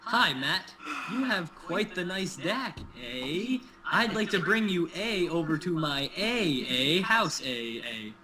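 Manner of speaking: slow, drawn-out mock Canadian with eh and A. Teasing Matt, a slow mock Canadian pickup line. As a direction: ham up the Canadian eh sound. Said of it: "let me try another one on ya".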